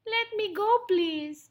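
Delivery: high, pleading little mouse voice; begging. Acted. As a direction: beg as a captured mouse. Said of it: "begged Midgie".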